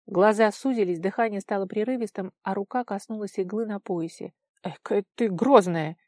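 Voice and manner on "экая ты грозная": amused smirk. A narrator's reading. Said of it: "неопределённо усмехнулся Толя".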